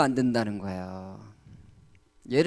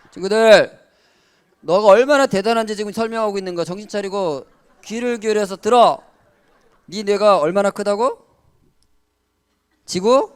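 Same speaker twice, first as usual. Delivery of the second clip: higher, louder rousing preacher; preaching; 5 semitones higher, 6 dB louder than usual. Acted. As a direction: wake up the room, calling out fast. Rousing the congregation.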